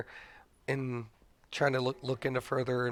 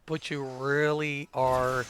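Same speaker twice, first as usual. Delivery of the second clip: scolding wife; slower than usual. Retold or imitated. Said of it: "and she scolded me".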